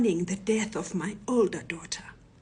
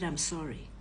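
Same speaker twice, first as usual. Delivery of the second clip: softer, understated apology; honest apology; 3 semitones lower, 5 dB quieter than usual. Retold or imitated. Robber boss apologises to his victim, honest and subdued. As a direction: say sorry quietly and sincerely. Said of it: "honest at this moment".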